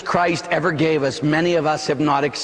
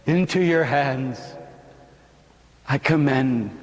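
sinking lower, fading to a whisper; dying whisper; 3 semitones lower than usual. Acted. Jesus giving up his spirit to the Father, fading whisper. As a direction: let the breath go with the words.

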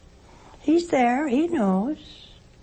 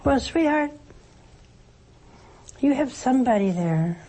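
tender comfort; 4 semitones higher than usual. Real, not acted. Comforting a grieving caller.

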